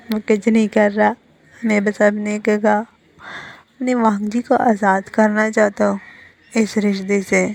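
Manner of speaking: lightly acted tipsy drawl; sounding drunk. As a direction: drag the words out as if a little drunk. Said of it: "ऐसा sound कर रहा था जैसे उसने drink किया". (हल्का नशे में, खींच-खींच कर)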